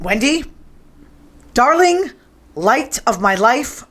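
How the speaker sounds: lightly voiced menacing Jack, slow on the last words; a hint of a creepy husband, drawn out; Jack from The Shining. Host quotes the Shining stairs scene, lightly menacing slow voice. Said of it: "That scene where she's on the stairs".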